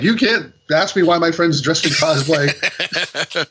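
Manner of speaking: high, drawn-out indignation breaking into laughter; mock a drunk's outrage, laughing at it; mock belligerent drunk. Drunk friend challenging police about cosplay, mock belligerent. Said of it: "drunk friend is being a total ass".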